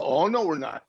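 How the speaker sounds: retelling a friend's amused telling-off; laughing mock scolding. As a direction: playfully refuse to put up with it. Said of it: "And she go".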